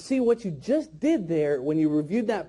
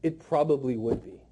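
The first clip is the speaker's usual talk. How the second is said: lower, offhand "it probably would be"; weak, unconvinced; 8 semitones lower, 3 dB quieter than usual. Shown as a demonstration. Trainer mimicking trainees' weak line, low and unconvinced. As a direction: toss it off with no conviction. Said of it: "I'm sick of hearing this".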